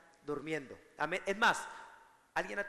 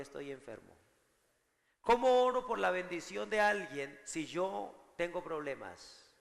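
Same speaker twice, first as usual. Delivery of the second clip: voicing inner doubt; 4 dB louder than usual. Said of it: "lo primero que le viene a la cabeza es".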